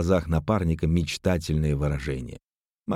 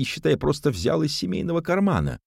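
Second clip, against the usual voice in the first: indignant; 10 semitones higher than usual. A narrator's reading. Cousin justifies the theft.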